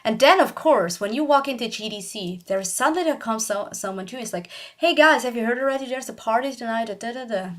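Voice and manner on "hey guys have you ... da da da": excited announcer. Retold or imitated. Stranger rushing up to announce a party, eager and quick. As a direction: gush about the party like a hyped stranger.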